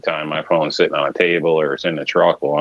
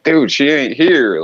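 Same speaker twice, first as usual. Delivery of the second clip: higher, louder and slow, fed up; exasperated retort; 10 semitones higher, 5 dB louder, slower than usual. Retold or imitated. Man telling the caller who keeps asking for a girl, exasperated and slow. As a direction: tell him off like you've said it a hundred times. Retold answer to repeat caller.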